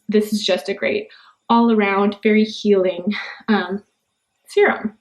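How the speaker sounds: breathless after talking fast; running short of air; out of breath. Real, not acted. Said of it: "I'm out of breath".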